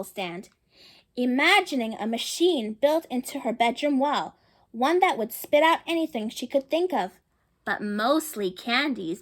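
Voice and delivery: gentle read-aloud storytelling voice; storybook narration. A narrator's reading. Reading a picture book to children, storybook narration. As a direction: read the story to the little ones.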